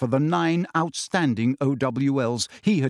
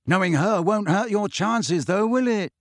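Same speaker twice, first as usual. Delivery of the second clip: encouraging; 7 semitones higher than usual. Acted. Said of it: "Ron told him encouragingly".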